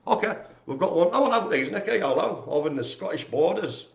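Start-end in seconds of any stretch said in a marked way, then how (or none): 2.0-3.9 put-on uncertain stab at an Irish accent; attempted Irish accent. Host greeting a viewer in the Scottish borders, attempted Irish accent. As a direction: have a rough go at Irish. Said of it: "if that was an Irish accent".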